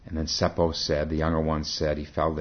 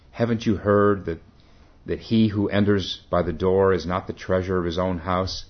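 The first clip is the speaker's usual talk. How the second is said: shouts; 2 semitones higher, 4 dB louder than usual. Acted. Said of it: "and he shouts".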